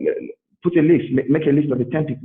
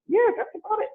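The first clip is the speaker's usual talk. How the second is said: lightly voiced other; 3 dB quieter than usual. Acted reply, odd voice.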